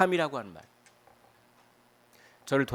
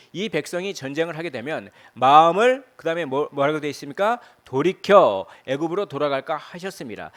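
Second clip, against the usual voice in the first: loud scripture reading; 2 semitones higher, 10 dB louder than usual. Acted. Pastor reading the verse to the congregation, loud proclamation. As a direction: read the verse out, louder and weighty.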